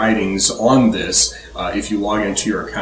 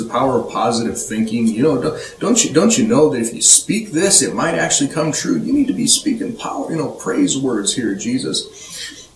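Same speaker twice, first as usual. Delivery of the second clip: mock Peter scolding Jesus; 3 semitones higher than usual. Preacher voicing Peter pulling Jesus aside, mock earnest coaxing. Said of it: "He's like".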